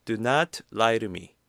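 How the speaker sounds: "to" softened to a light "ru". Shown as a demonstration. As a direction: flap the "to" into "ru", lightly. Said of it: "to 발음이 여기에서 르, 이렇게 조금, 어, 약화돼서". ("to"를 "르"처럼 약하게)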